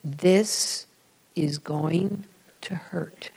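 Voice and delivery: slow, soft whispered warning; hushed and slow, eye to eye; father's whisper. Retold or imitated. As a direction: whisper it gently as a father to a scared child. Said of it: "He looked me in the eye and he said".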